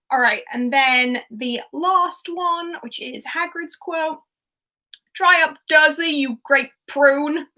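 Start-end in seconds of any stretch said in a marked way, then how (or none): 5.1-7.5 loud, higher Hagrid bellow, slow on prune. Retold or imitated. Hagrid telling off Dursley, loud and booming. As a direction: boom it at Dursley. Hagrid quote acted loudly.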